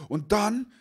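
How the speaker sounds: high, sheepish voice of the buddy; nervous friend. Retold or imitated. Friend telling the owner about the broken game, high and flustered.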